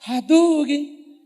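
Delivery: high, very slow, loud drawn-out special attack shout; mock fighting game move. Preacher jokes to the crowd with a video game cry. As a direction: yell it like a game combo. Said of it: "preacher's playful finishing blow".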